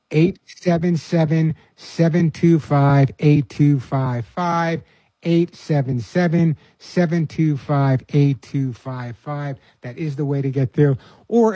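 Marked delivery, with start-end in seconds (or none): 0.1-9.6 slow, deliberate, each digit spaced apart; slow number dictation. Real, not acted. Radio host giving callers the phone number, slow and deliberate. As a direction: read the digits slowly so listeners can write them down.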